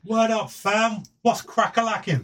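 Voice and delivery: high, mock street slang. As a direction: ham up modern slang, pitched high. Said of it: "twenty twenty-three colloquial slang".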